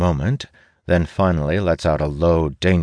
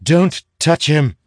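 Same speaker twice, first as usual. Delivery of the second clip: slow, loud, high command; commanding shout; 12 semitones higher, 6 dB louder, slower than usual. Acted. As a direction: stop him cold with your voice. Magus stops king's threat.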